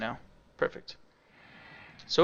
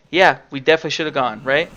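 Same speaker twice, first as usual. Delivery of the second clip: louder, sarcastic fake agreement; 5 dB louder than usual. Shown as a demonstration. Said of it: "I'm going to very sarcastically say".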